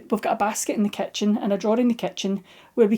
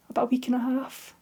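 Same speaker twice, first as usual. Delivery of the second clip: breath only, barely voiced; whispered; 2 semitones higher, 7 dB quieter than usual. Real, not acted. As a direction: drop to a sad whisper. Sad aside about missing grandkids.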